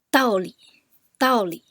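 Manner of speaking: 道理 with falling 道 and a light 理; teacher drills 道理 for learners, loud and clear; fourth plus neutral tone. Shown as a demonstration. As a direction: drop on 道 in 道理, let 理 fade. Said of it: "道理 is the fourth tone plus the neutral tone".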